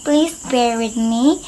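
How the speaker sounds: talking through a toothache; toothache, mouth barely open. Real, not acted. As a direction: speak with the jaw barely open. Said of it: "I can't open my mouth".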